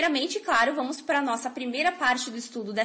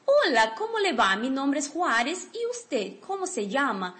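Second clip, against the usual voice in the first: model sentence. Shown as a demonstration. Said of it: "a segunda frase".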